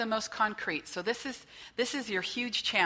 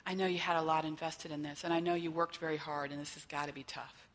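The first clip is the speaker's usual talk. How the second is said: softer, caring counselor voice fading quieter; gentle reassurance; 3 semitones lower, 4 dB quieter than usual. Retold or imitated. Counselor consoling a client after relapse, gently. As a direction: ease off and comfort them.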